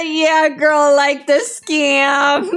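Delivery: slow, drawn-out told-you-so; knowing drawl. Retold or imitated. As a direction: stretch it out, deadpan sass. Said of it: "and said".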